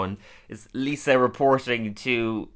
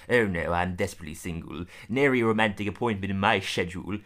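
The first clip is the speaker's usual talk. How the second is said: retold British accent, pitched down a little; 3 semitones lower than usual. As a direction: slightly lower mock British voice. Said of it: "the male one is British".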